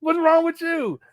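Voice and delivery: high mock-concerned voice; high teasing question to a bird; talking to the bird. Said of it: "you talk to that bird".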